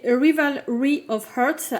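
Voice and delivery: playful mock English accent on the title. Shown as a demonstration. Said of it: "avec mon super accent anglais".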